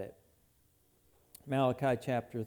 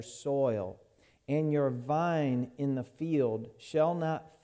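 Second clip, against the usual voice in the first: measured, solemn Bible reading; scripture reading. Acted. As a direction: read the Lord's words with weight. Reads the Malachi passage aloud.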